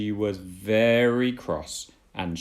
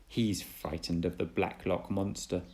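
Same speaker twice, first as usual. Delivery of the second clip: teasing; 2 semitones lower, 5 dB quieter than usual. Acted. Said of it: "teased Thomas".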